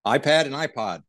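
"iPad" and "iPod" said alike, Aussie style; same-sounding vowels. Shown as a demonstration. Guest showing host two sound-alike words, "iPad" and "iPod" with near-identical vowels. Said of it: "That's the same pronunciation".

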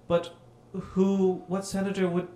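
fake politician voice. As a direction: ham it up like a scheming senator. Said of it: "his fake politician voice".

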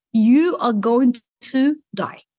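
slow, deliberate retold death sentence; grim pronouncement. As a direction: deliver it slowly, word by word.

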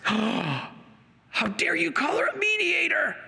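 gasp, then a high, slow, indignant shout; mock outraged critic. Preacher mocking anti-Catholic critic, gasping outraged shout. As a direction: play the scandalised objector with a gasp.

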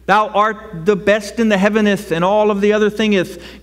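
lofty old-fashioned prayer voice, lightly hammed; a hint of pompous thee-and-thou praying; mock King James prayer. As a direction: pray like an old Bible, half in jest. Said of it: "If your prayers are".

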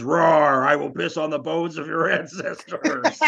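a mock roar, then cracking up mid-quote; barely holding it together; laughing through the line. Retelling Alma's movie line, laughing through it. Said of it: "And then she says".

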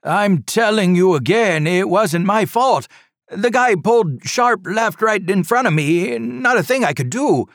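high, loud, defensive protest; loud blustering driver. A narrator's reading. Driver shouting at the trooper, loud and defensive. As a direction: insist loudly it wasn't your fault. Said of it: "talking loudly".

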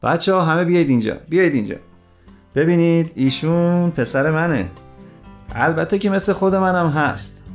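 father's character voice, heartfelt introduction. A narrator's reading. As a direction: present your son sincerely to colleagues. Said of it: "از ته دل گفت". (از ته دل، با صدای پدر)

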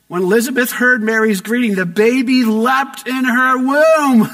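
excited. A narrator's reading. Preacher thrilled as the baby leaps, excited. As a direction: let the joy swell.

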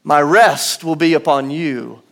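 "My" weighted, slow delivery; slow, "My" stressed. Shown as a demonstration. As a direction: lean on "My", singular.

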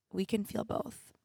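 soft, slow, almost to herself; quiet. Real, not acted. Host quietly reassuring herself she can feel both. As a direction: let it sink in gently.

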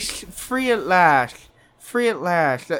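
slow, droning, slurred delivery; slurred Jones imitation. To the hosts, another slow slurred take on Jones. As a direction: let it sag, half asleep. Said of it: "he's like".

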